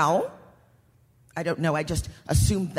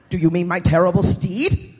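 louder, pompous dark lord; villain voice; 6 dB louder than usual. Acted.

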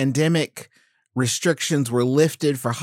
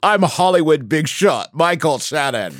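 mock Michael Shannon; 2 semitones higher, 4 dB louder than usual. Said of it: "That's not really what he sounds like".

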